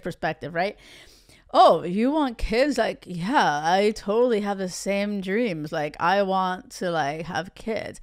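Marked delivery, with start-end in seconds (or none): 1.5-8.0 mock player voice. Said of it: "I have this voice for these players".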